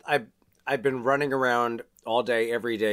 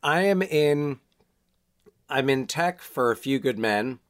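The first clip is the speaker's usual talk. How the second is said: lozenge clicking on teeth; talking around a lozenge; sucking a hard candy. Real, not acted. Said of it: "The lozenge is hitting the teeth".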